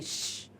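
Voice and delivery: whispered श with the tongue curled; sha sound demo. Shown as a demonstration. Teacher to students, a whispered श. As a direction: curl the tongue back for श. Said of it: "ये हमारी जीभ इतने आगे नहीं आएगी".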